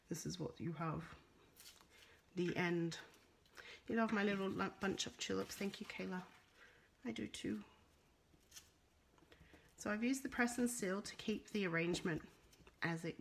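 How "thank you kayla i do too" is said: whispered aside; hushed agreement. Real, not acted. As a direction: breathe it softly to Kayla. Soft aside thanking viewer.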